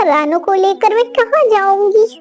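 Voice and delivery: anxious, tearful plea; pleading wife. Acted. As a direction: beg him not to throw her out.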